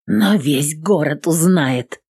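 slow, hoarse threat; hoarse and deliberate. Acted. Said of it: "хрипло говорю в трубку".

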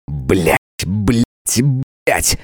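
angry swearing; cursing. A narrator's reading. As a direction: curse in frustration. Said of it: "выругался я". (ругаясь)

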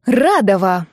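loud growling call of her friend's surname; growled. A narrator's reading. Friend on the phone growling her name in annoyance. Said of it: "прорычала Ниночка".

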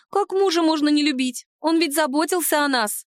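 high, wide-eyed answer; surprised house spirit. Acted. House spirit answers the heroine, high and surprised. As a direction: answer as if it is obvious, pitched high.

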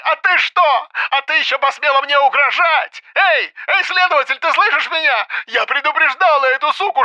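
very high-pitched frantic tirade over phone; furious hysterical yelling. A narrator's reading. Mother accuses woman and appeals to investigator, yelling hysterically. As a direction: rant hysterically down the line. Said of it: "заорала Свиридова".

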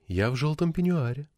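softly coaxing on ПЕНЬЮАРЕ, voice held up; lightly voiced wife, softly inviting him home; a soft phone invitation. A narrator's reading.

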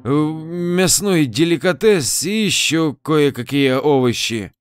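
tipsy, stumbling words; drunk. Acted. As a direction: talk like you've had too much wine. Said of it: "После пьяного возгласа". (пьяным голосом)

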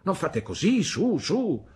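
the aunt clumsily soothes the sobbing mother; flustered hushing. A narrator's reading. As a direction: hush her awkwardly.

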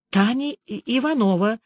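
ordinary delivery, nothing marked

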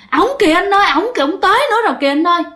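put-on high, very fast, panicked child's cry; crying in fear. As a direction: blurt it out pointing in terror. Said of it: "em bạn vừa khóc vừa chỉ ra ngoài cửa sổ".

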